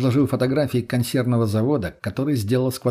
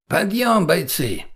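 commanding wake-up call; 7 semitones higher, much slower than usual. Acted. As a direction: wake the squad with an order. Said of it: "настойчивый командный голос".

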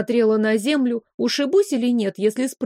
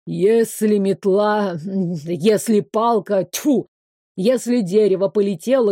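a stern male professor, lightly voiced; lecturing professor. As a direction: scold the student like a weary teacher.

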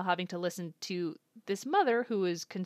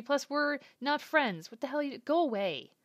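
mildly imitated anger; 6 semitones higher than usual. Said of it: "Katawaki is pissed".

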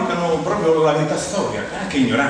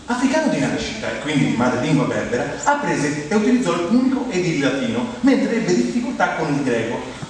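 biography reading. Acted. Reads out a biography to audience.

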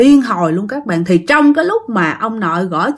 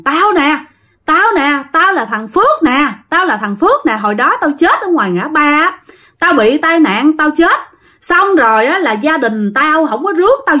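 higher-pitched, lightly acted restless spirit; possessed man crying out; 4 semitones higher than usual. Spirit in the uncle's body tells who he is, higher-pitched. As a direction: announce yourself as an aggrieved ghost, mildly acted. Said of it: "Lúc đó chú Út mới la làng lên".

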